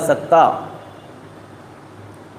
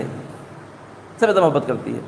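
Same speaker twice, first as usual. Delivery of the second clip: soft, tender hush; 6 semitones lower, 10 dB quieter, slower than usual. A narrator's reading. Preacher tells the congregation of a mother's love, softly and slowly. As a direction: drop to a near-hush, slowed and tender. Monkey's love for her baby.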